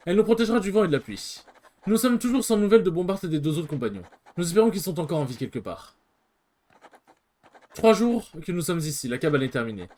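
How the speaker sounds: steady, measured narration of the shipwreck; story narration. A narrator's reading. Streamer reading the game's story text aloud, in a measured narrating voice. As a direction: tell the castaways' story evenly.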